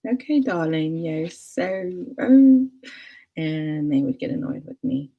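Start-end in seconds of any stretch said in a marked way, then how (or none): 0.1-2.7 lightly put-on British accent, playful; teasing pretend British accent; mock British accent. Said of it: "someone with a British accent, I would just be like".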